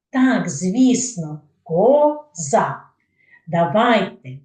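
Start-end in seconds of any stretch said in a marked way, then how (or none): 1.6-2.8 КОЗА in two beats, ко-за; коза broken in two, louder on ко; split into syllables. Shown as a demonstration. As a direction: say коза syllable by syllable, both vowels held. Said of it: "складів у слові коза".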